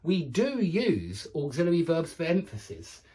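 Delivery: "do" pressed hard, the rest plain; stress on do. Shown as a demonstration. Teacher shows auxiliary do for emphasis. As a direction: hit "do" to make it stronger. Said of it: "It makes it stronger".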